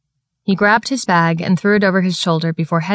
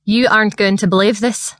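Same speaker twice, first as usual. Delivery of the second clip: put-on broad Scottish accent; 3 semitones higher than usual. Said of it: "His thick Scottish accent".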